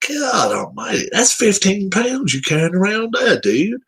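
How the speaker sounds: high-pitched incredulous complaint; exasperated disbelief. Retold or imitated. Fan ranting about shaggy players' braids, high and incredulous. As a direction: pitch way up, aghast at what you saw. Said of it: "I'm thinking to myself".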